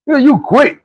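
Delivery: high disbelieving question; incredulous coach. Retold or imitated. Coach doubts the player quitting, high and incredulous. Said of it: "coach reply".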